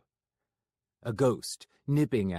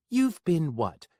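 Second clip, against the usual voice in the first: higher, louder, slow demand; pressing demand; 7 semitones higher, 6 dB louder than usual. Acted. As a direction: demand an answer.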